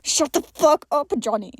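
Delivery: sharp hissed rebuke; mild hissed snap at a joking friend. Acted. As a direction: hiss it at him through his teeth. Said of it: "John hissed".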